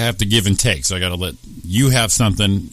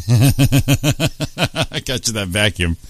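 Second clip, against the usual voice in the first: laughing; 3 semitones higher, much slower than usual. Pretend. Voicing husband from vintage ad.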